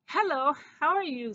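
put-on young mouse voice. A narrator's reading. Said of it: "said Christopher".

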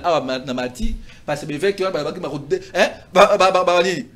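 ordinary delivery

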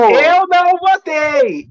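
loud, slow insistence; emphatic denial. Pretend. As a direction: shout it slowly, protesting. Mock protest, live on air.

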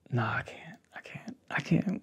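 whispered to herself, backing off; embarrassed whisper. Real, not acted. Holding back something awkward from her date, whispering. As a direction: hush it, talking yourself out of it.

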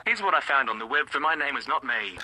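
fast, low device voice; like a phone assistant reading results. Real, not acted. Voice assistant reply.

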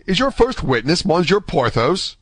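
high, surprised question; astonished. A narrator's reading. D'Artagnan asking about Athos's first witness, astonished. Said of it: "cried D'Artagnan".

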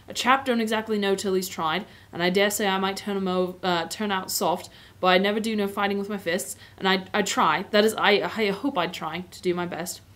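lightly voiced Cockney cabbie; hesitant, humble answer in mild Cockney; Cockney accent. Cabbie unsure of his courage in war, light Cockney accent. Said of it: "the Cockney accent is what I've been doing".

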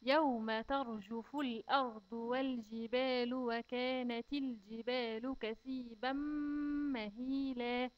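slow, measured tajweed chant; measured recitation of the verse; slow Quran recitation. Shown as a demonstration. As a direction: recite it carefully for the children. Recites full verse again.

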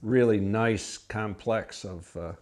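between sips of wine; speaking into a wine glass; talking with glass at lips. Real, not acted. Seen 1: Left speaker keeps wine glass raised at mouth while talking throughout.

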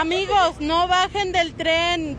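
earnest warning. Real, not acted. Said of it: "la desesperación es mucha".

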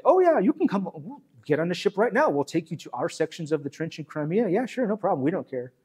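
eager British officers. Retold or imitated. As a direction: play the British officers as overly chummy hosts. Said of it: "the British say".

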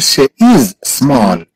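slow, separate words, stretching "is"; slow model. Shown as a demonstration. Teacher models English feminine "she is small", slowly. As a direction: hold "is" before a separate "small".

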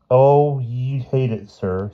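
earnest schoolboy to headmaster. A narrator's reading. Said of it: "said Boots earnestly".

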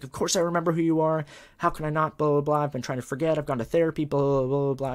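high, loud mock tirade; retold screaming rant. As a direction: imitate a teacher snapping, rattling off grievances. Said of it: "She starts screaming at me".

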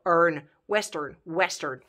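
"western" ending in English "earn", repeated; English pronunciation. Shown as a demonstration. Teacher drilling the English ending, careful "western". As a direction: model "earn", then the whole word "western". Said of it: "în engleză însă pronunți western cu a".

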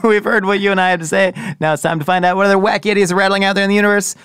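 put-on old radio announcer. Shown as a demonstration. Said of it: "I've immediately adopted a nineteen thirties radio announcer voice".

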